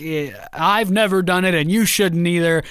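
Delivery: slow, halting father-to-son talk; a hint of an awkward, drawn-out lecture; imitated fatherly lecture. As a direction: lightly play a father labouring through advice.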